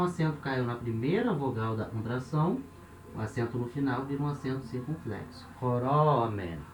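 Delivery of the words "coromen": Coromen said slowly, syllable by syllable; slow model word. Shown as a demonstration. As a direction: spell out Coromen slowly for the class. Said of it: "Nós vemos".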